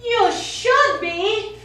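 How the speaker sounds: angry. Acted. Francesca angrily rebukes former lover.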